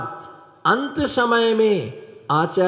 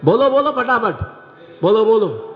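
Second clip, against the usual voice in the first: urging call to audience; 3 semitones higher, 3 dB louder than usual. Real, not acted. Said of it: "urging audience to answer".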